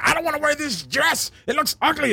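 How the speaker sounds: high whiny little girl, imitated; mock a bratty girl whining at mom. Girl whining to her mom about a dress, high and whiny. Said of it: "she was screaming at her mom".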